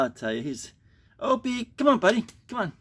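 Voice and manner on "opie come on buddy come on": much higher, sing-song pet call; repeated high calls to a pet; coaxing the dog. Real, not acted. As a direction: coax a shy dog out with a high, lilting voice.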